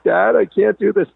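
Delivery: put-on high, panicky little girl on the coaster climb; scared daughter. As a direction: plead with dad like a frightened child. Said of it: "She's like".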